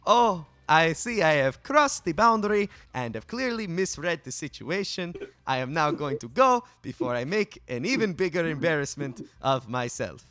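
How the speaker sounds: high, chirpy, overly formal stranger; cheerful formal townsperson voice; overly polite NPC. Acted.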